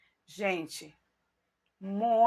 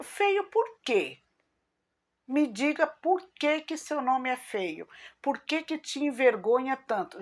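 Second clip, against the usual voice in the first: incredulous question; 4 semitones higher than usual. Retold or imitated. New friend questioning her.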